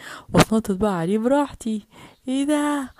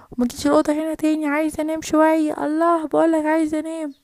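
irritated yelling; 2 semitones higher, 4 dB louder than usual. Acted. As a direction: snap at him to let her sleep. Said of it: "عمالة تزعق كده". (أم نعسانة بتزعق لابنها)

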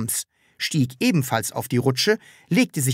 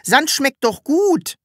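put-on much higher, slow childlike creature voice; Sams voice; 12 semitones higher, 4 dB louder, slower than usual. A narrator's reading. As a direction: innocent little Sams, puzzled. Sams explains innocently.

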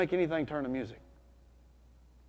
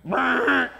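imitated generator buzz; 8 semitones higher, 7 dB louder than usual. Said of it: "the thing goes".

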